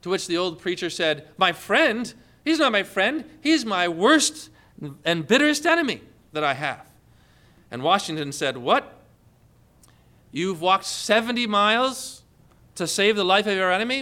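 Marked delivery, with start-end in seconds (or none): 1.4-6.9 lightly acted protest, higher at the start; indignant retort. Old preacher answering Washington about his worst enemy, mock indignant. 8.6-14.0 mildly acted disbelief; astonished question. Washington hearing of the seventy-mile walk, mildly astonished.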